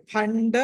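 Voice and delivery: భండ opening on breathy bha, never plain ba; aspirated bh in భండ. Shown as a demonstration. Teacher corrects pupil's ba, భండ with aspirated bh. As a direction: stress the aspirated first sound of భండ. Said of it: "బా కదండి".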